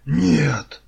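very loud, high-pitched yell; shouted refusal. A narrator's reading. Kars senses danger and refuses, shouting high and loud. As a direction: cry out against the danger. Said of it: "закричал Карс".

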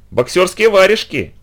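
high, slow mocking jab; sneering. Girl mockingly explains to the father, sneering. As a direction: draw it out to needle him. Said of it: "ехидно взглядывая на меня".

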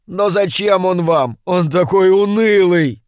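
high, strained imp pleading its master; a petty demon begging for release, voice pitched high; high complaining imp; whining little demon. A narrator's reading. Imp protests.

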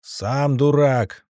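slow, drawn-out heckling shout; loud heckle. Acted. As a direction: shout it across the arena. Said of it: "довольно громко крикнул я".

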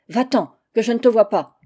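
loud, furious dismissal; angry cry. Acted. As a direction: drive him out with a shout. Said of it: "s'écria-t-elle". (cri furieux pour le chasser)

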